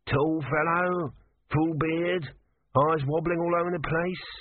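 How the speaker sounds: high, slow, strange drawl; dry old god recalling; tortoise god voice. Acted. Tortoise speaking.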